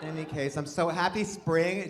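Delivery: usual speaking voice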